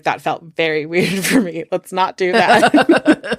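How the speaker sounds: laughing through the words; amused. Real, not acted. Host amused at her own near slip, laughing. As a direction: break into a laugh as you finish.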